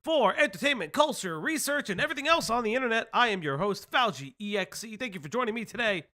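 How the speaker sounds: upbeat broadcast intro, announcing the show; show host intro. Acted. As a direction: welcome viewers like a radio host.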